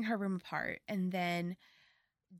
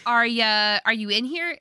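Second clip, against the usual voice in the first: raised voice calling into the bathroom; calling out loud; 3 semitones higher, 9 dB louder than usual. Retold or imitated. Boy calling loudly into the bathroom stall for Laura Jean. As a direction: call out loudly to someone hidden.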